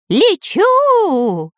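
high frightened cry; panicked. A narrator's reading. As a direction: yelp as he flies. Flying in the storm.

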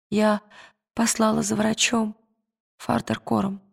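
quiet, trembling anxious voice; hushed and shaking with worry. Acted. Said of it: "дрожащим голосом произнесла женщина". (дрожащим голосом)

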